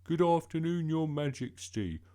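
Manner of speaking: put-on loud, high, brisker boy's greeting; hurried greeting. A narrator's reading. Bertie retrying after Mum said hurry up, briskly. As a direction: get the polite greeting over quickly. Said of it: "And hurry up".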